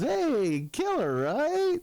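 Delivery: high, questioning hello; hammed-up delight at spotting an old buddy; excited recognition. Matt recognizes him after decades, excited.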